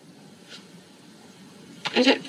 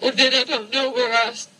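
tearful, fighting back sobs; through tears; faster than usual. Real, not acted. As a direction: voice catching while crying. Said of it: "because of my tears".

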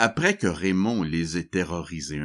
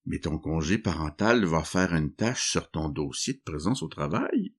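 sarcastic. Acted. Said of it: "Voulant être sarcastique".

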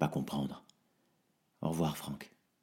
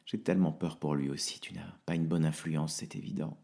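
tired and tearful, pleading; quiet heartbroken farewell; exhausted; 2 semitones lower, 3 dB quieter than usual. Acted. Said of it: "Je suis épuisé".

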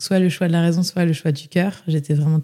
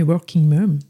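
French-accented English "working mom"; English words in a homegrown French accent; self-mocked English accent; slower than usual. Real, not acted. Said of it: "avec mon super accent anglais".

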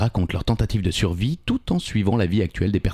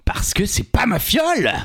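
whispered; 10 semitones higher than usual. Acted. Joker catchphrase, hushed.

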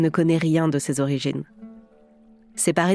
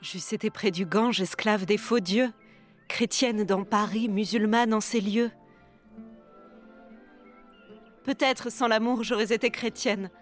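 soft, higher, intimate tragic heroine; right in your ear; 4 semitones higher, 7 dB quieter than usual. Acted. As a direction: murmur the verses close to the mic, lovingly torn. Actress recites Zaïre's verses.

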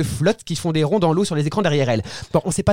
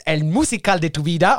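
put-on Spanish accent; 2 semitones lower than usual. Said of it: "mon accent espagnol".

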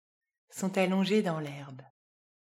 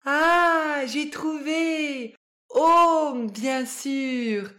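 high, loud cry of discovery; excited exclamation; 7 semitones higher, 8 dB louder, much slower than usual. A narrator's reading. Harry solving the riddle, loud and excited. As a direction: burst out with the answer. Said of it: "s'exclame Harry".

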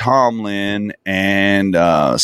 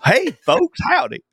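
hammed-up folksy Southern yokel; Southern guy; 9 semitones higher than usual. Mocking the dinosaur explainer, hammed-up Southern hick accent. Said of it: "I got a Southern guy".

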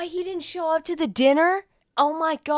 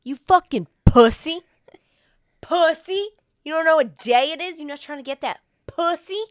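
loud, jeering bro taunt; mock taunt; 2 semitones higher, 6 dB louder than usual. Taunting the brother who forgot Valentine's Day, loud and jeering. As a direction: razz him loudly like a frat bro.

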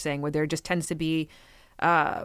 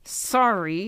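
stale apology; 4 semitones higher than usual. Retold or imitated. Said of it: "the stalest apology you have ever heard".

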